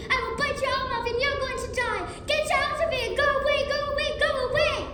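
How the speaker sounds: furious tantrum. Acted. Child's furious tantrum at visitor.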